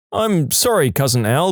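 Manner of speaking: quickly correcting to I'm sorry, cousin Al; corrected apology. Acted. Tom eagerly correcting himself to cousin Al, apologetic. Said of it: "We're cousins".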